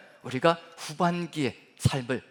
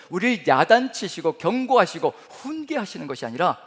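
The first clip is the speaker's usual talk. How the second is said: usual speaking voice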